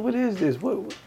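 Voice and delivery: put-on high, soft childish voice; mock kindergarten voice; high kid voice. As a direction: squeak it like a little kid. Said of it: "I was talking like this".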